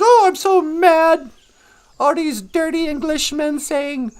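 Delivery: a hint of an indignant old rocker; mock angry rant. Comedian imitating a rock singer ranting at the summit, mock angry. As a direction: lightly mimic a cranky complaint. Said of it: "a rock singer gets out there".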